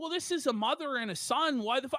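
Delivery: ordinary delivery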